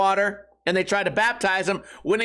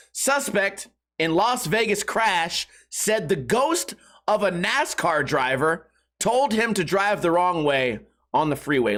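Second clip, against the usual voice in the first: slow, deliberate headline reading; news read; slower than usual. Acted. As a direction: read out the headline slowly for effect. Reads a news headline aloud.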